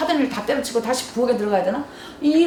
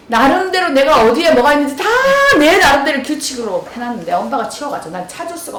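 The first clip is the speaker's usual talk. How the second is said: mock child yelling back; 4 semitones higher, 6 dB louder than usual. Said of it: "지가 더 큰 소리 치잖아요".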